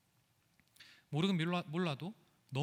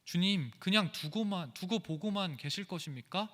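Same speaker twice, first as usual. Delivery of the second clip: angry protest; 2 semitones higher than usual. Retold or imitated. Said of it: "화를 내고 있는 것이죠".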